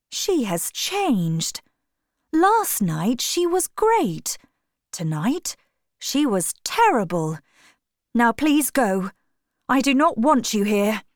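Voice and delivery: a shaken lover dismissing his friends; hurt Dorian. Acted.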